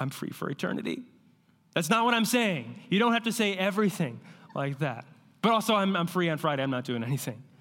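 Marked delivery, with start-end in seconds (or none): 0.0-1.0 choked up, teary, fighting back tears. Imagining being asked if he's free Friday, the speaker answers mock holding back tears. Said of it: "And holding back tears".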